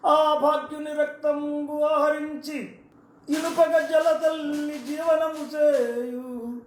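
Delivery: slow, measured verse recital; poem recitation. Shown as a demonstration. Orator recites Gabbilam's serpent verse to audience, slow recital. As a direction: intone the verse slowly, line by line. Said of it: "పద్యం మీకు వినిపిస్తాను".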